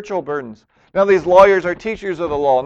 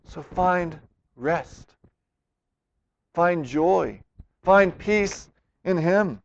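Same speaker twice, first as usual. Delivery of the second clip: slow gentle invitation; 4 dB quieter, much slower than usual. Real, not acted. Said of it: "pastoral invitation".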